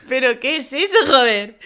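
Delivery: laughing mock-amazed copy; host copying her co-host's amazed outburst; imitating astonishment. Shown as a demonstration. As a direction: try to copy the amazed line. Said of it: "a ti te ha salido genial".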